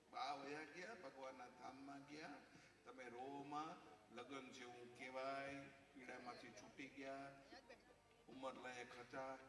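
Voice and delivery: low, slow mock-soothing patter; lightly acted comforting, phrase by phrase; consoling wife. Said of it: "પાછી ઓલી સમજાવે".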